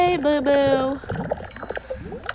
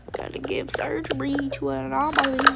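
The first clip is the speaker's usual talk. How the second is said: whispering; 6 dB quieter than usual. Real, not acted. Whispered aside while playing.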